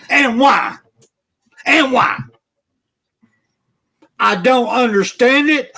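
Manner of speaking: genuinely furious fan venting; real angry rant. Real, not acted. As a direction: let the frustration boil over. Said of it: "I'm fucking pissed off".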